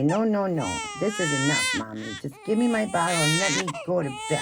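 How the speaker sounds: lightly voiced baby pleading with Mommy; mock protest, starting high. Speaking for baby to Mommy, playfully fed up.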